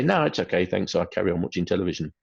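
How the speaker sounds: lightly voiced breezy child saying no thanks; child declining casually. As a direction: airily turn down the offer. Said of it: "the individual may say".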